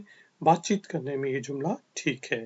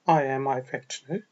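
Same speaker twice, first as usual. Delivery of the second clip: slow informal model; 3 semitones lower, much slower than usual. Shown as a demonstration. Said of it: "informal environment में हम".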